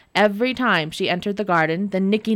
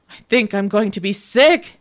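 crying out; 5 dB louder than usual. Acted. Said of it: "he cried".

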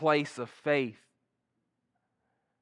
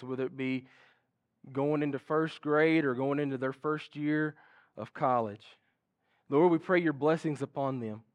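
earnest spoken prayer. Acted. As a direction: pray over the children reverently. Leads a closing prayer.

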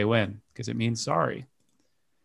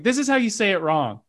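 mock Google voice; 8 semitones higher, faster than usual. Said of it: "I don't know why they'd have just, like".

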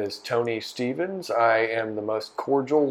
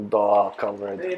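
mock Russian; 3 semitones lower, slower than usual. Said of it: "the Russian accent".

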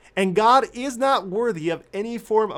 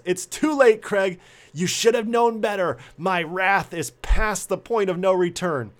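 mock wrath, just short of yelling; almost yelling. Wife refusing her husband's apology, stern near-yell. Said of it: "she almost yells".

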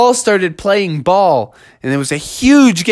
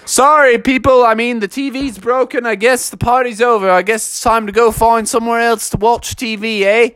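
lightly voiced father ushering people out; apologetic father; 3 semitones higher than usual. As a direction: break it to the guests casually. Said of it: "He said".

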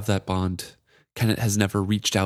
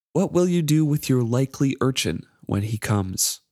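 a lightly voiced, higher, mocking magic charm; sly needling voice, slightly raised; taunting charm; 5 semitones higher than usual. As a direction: tease him from the shadows, higher. Reads the charm's taunting lines.

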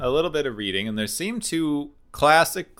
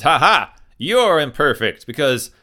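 louder, mock-triumphant captain; gloating Kirk; 4 semitones higher, 4 dB louder than usual. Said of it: "And Kirk goes".

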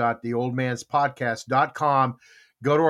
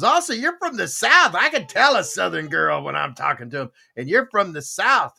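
retold barbecue cook; 2 semitones higher than usual. Cook guessing the girl is from the South, lightly voiced. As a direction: pounce on a guess, lightly acted. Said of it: "he goes".

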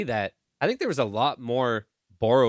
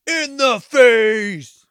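high, slow, loud gleeful shriek; shrieked quote; 11 semitones higher, 9 dB louder, much slower than usual. Pretend. Friend repeats the kill line in a gleeful shriek. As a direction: shriek the movie line with glee.

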